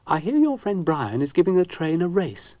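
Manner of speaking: happily. Acted. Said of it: "said Ermyntrude happily".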